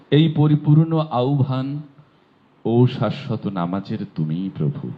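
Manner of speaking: stately recited quote; solemn broadcast recitation. Shown as a demonstration. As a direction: intone it like the call before prayer on radio. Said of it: "খেয়াল করেন বোর্ডে".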